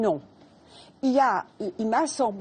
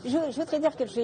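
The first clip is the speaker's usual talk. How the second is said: laughing while talking; 5 semitones higher, much faster than usual. Real, not acted. Speaks through laughter after laughing.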